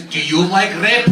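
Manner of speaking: put-on innocent question with a light Czech accent. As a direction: imitate a Czech date asking politely. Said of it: "She's Czech. She says".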